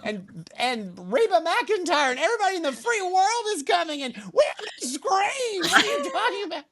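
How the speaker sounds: high laughing, near-crying rant; frantic panicked rant. Retold or imitated. Ranting at the delivery guy about the guests, high and hysterical. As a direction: rattle it off in comic hysteria. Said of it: "I was like".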